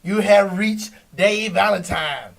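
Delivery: slow, announcer-style voicemail greeting; answering-machine voice with a dramatic name; a hint of the arena announcer on a voicemail. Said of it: "You want me to leave you a message on your answer machine".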